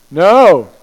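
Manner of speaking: loud, sharp no; emphatic no. Real, not acted. Preacher to congregation, loud emphatic refusal. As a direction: cut the idea off hard.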